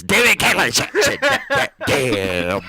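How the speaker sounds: frustrated high-pitched swearing; Liz cursing. Retold or imitated. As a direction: sputter curses in exasperation. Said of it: "I'll be like Liz".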